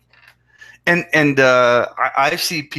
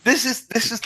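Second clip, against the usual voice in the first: laughing disbelief; 8 semitones higher, 4 dB quieter than usual. Real, not acted. Laughing disbelief at drug site.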